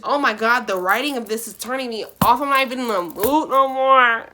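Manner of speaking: fed-up, rising complaint; exasperated. Real, not acted. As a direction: sound fed up with it. Exasperated complaint about writing.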